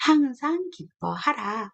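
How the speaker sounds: slow, solemn recitation of the verse; solemn Bible verse recitation; scripture reading. Acted. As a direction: read the verse slowly and weightily. Repeats verse slowly.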